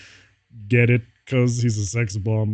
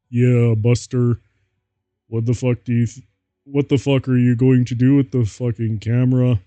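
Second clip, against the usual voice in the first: Moist Critical voice; 4 dB louder than usual. Acted. Reader redoing Draco's camera line in a Moist Critical voice. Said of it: "I'm gonna try and do a Moist Critical voice".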